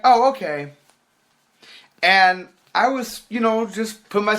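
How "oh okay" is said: high, louder mock acceptance; mimicked girl. Girl accepting his refusal, high mimicking voice. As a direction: imitate her, pitched well up.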